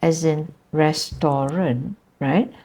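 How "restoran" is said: restaurant said as res-TO-ran; Malay restoran. Shown as a demonstration. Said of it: "there is a Malay version of it".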